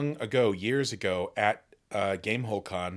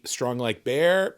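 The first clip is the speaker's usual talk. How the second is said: mock Russian accent; 4 dB louder, slower than usual. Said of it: "and I'm doing a Russian accent".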